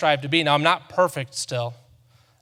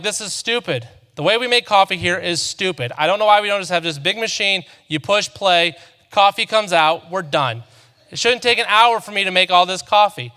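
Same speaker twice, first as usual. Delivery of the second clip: annoyed rant. Retold or imitated. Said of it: "I was annoyed".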